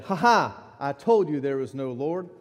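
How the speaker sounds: loud mocking taunt, slowing at the end; a hint of a gloating atheist; gloating neighbor. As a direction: rub it in, mocking. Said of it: "and said".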